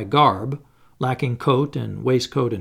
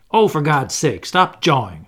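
louder exasperated outburst; cried out; 5 dB louder than usual. Acted. Hannay cries out at the old gentleman to stop talking, exasperated. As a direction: cry out, fed up with his talk. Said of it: "I cried".

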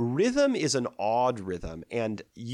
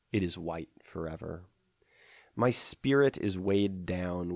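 measured, solemn poetry reading; poem recitation. Acted. Lecturer recites Sappho's poem on old age to listeners, measured recitation.

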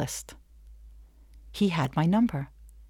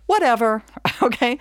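dismissive whatever; 5 semitones higher, 5 dB louder than usual. Retold or imitated. Dismissive modern shrug.

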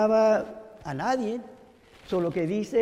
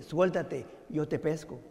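quiet, lower unseen voice; voice from above; 4 semitones lower, 5 dB quieter than usual. Retold or imitated. Voice answers man's cries, gently low. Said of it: "La voz le dice".

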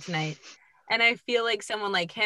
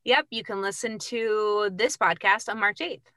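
higher-pitched promo read; voiceover voice; 4 semitones higher than usual. Pretend. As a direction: give it your voiceover announcer polish. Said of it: "Did you hear my voiceover voice there?".

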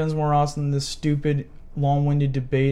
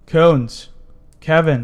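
loud calling out; yelling; 6 dB louder, much slower than usual. Real, not acted. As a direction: shout his name across the room. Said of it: "You don't have to yell".

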